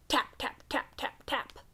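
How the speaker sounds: whispered suspense, dropping to a hush; soft spooky tapping. A narrator's reading. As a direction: breathe the taps like a secret. Tapping sounds read as suspense.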